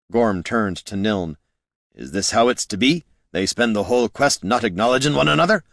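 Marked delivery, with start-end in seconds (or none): 1.9-5.6 incredulous question, quickening and rising at the end; lightly voiced exasperated adventurer. Adventurer questioning feuding mages' teamwork, lightly voiced exasperation. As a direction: let mild exasperation speed it up.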